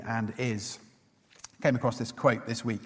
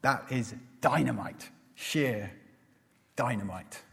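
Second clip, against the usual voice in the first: lightly put-on Indian accent, in measured phrases; mild Indian-accented quote, pausing before the last word. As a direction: retell it with a touch of an Indian accent. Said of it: "in an Indian accent".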